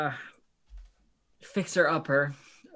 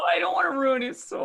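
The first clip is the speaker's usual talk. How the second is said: worried character voice; 11 semitones higher than usual. Acted. Player voicing worried character.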